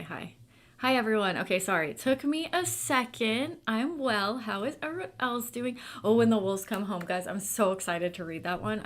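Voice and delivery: ordinary talk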